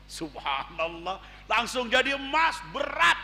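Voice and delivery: preacher marvelling at the gold; amazed. Acted. Amazed at clay turned gold.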